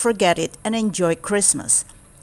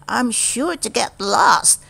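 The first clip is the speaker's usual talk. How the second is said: mild nervousness; 2 semitones higher than usual. Acted. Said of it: "he thought nervously".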